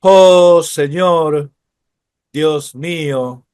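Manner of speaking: slow, solemn psalm recitation; prayerful reading. Shown as a demonstration. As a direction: intone it like a prayer, drawn out. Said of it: "el Salmo noventa y nueve".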